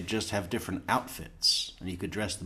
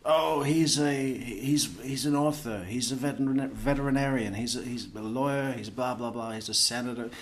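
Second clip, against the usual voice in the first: mocking Wendy name-dropping; 2 semitones higher than usual. Imitating Wendy boasting to impress Sarah, mock name-dropping. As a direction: toss off the titles like a show-off. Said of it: "We know she likes to name drop to impress".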